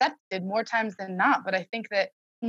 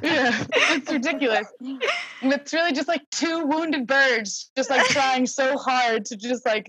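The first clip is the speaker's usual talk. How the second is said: laughing through the words, slowing down; amused, chuckling as she describes it; 3 semitones higher, slower than usual. Real, not acted. Daughter laughs while describing the family quarrels, real laughter.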